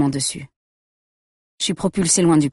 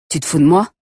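voix glaciale; 6 dB louder than usual. A narrator's reading. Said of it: "Sa voix est glaciale".

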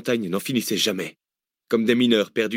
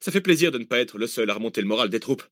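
upbeat man, raised pitch; cheerful Zach. Acted. Zach glad not to be alone boosting morale, upbeat. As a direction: lift the troops.

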